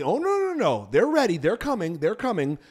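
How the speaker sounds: high, hurried mock protest at first, settling down; mock insistence. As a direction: imitate a friend insisting it's on the way. Mock quote of stalling friend.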